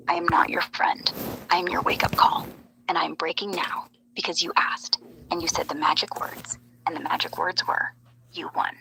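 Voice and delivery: hushed, dramatic conspiracy monologue, often whispered; ominous whispered revelation. Pretend. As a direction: deliver it like a secret confession breaking through. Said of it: "that was really, really dramatic".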